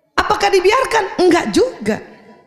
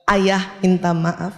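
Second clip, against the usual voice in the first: slow sincere apology; slower than usual. Shown as a demonstration. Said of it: "Kalimatnya itu".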